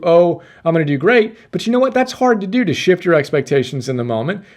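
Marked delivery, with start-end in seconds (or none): 0.0-1.4 confident self-talk. Retold or imitated.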